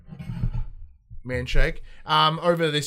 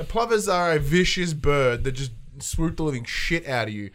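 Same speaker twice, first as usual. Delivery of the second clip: ordinary talk, nothing marked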